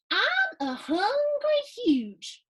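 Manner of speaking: slow, high, drawn-out misread; misread start. Shown as a demonstration. Reading to kids, starting the line wrong. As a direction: stretch out the misread opening. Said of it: "I'm gonna start that again because that's not what it said".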